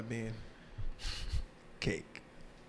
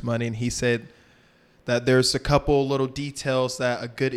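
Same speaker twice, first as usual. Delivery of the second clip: loud recap; 6 dB louder than usual. Real, not acted. Takes over the recap.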